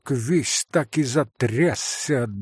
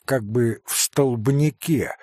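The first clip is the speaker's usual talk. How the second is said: usual speaking voice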